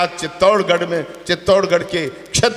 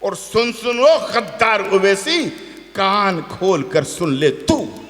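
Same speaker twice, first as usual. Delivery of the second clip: slow, measured verse; poem recitation; slower than usual. Acted. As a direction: declaim slowly, line by line.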